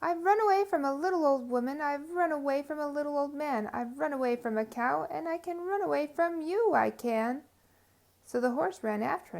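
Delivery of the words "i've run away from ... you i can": calling out boast. Acted. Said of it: "called out".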